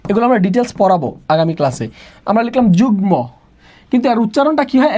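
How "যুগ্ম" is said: যুগ্ম said as jug-mo, g and m both clear; both consonants sounded. Shown as a demonstration. Teacher shows students the exception, যুগ্ম with g and m both pronounced. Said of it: "দুইটা বর্ণের উচ্চারণ হয়".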